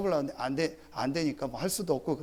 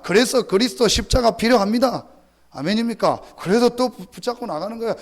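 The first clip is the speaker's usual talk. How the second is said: much higher, much louder impassioned preaching; preaching at full force; 7 semitones higher, 10 dB louder than usual. Acted. Pastor stirring congregation, impassioned loud preaching. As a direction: cry it out to the congregation.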